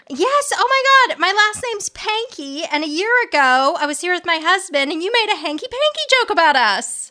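high, breathless gushing; enthusiastic fan. Retold or imitated. Audience woman telling the psychic her story, high excited gush. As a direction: spill it all out like a superfan. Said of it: "This woman is so enthusiastic".

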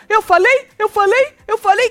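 high, loud, repeated mock protest; insistent protest. Retelling Tonhão seeking support, high insistent protest.

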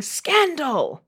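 high dramatic cry of scandal; mock period-drama exclamation; Bridgerton scandal cry. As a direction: gasp it out like a Regency gossip. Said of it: "they're always yelling".

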